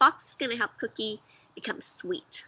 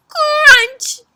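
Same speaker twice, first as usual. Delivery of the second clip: much higher, loud; loud crunch; 13 dB louder than usual. Shown as a demonstration. Leading children to say it together. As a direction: snap it out with the kids. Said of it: "Say it with me".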